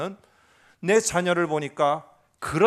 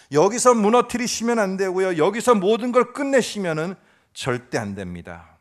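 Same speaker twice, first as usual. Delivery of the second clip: insistent prayer; 2 semitones higher, 3 dB louder than usual. Acted. Preacher voices bold insistent prayer.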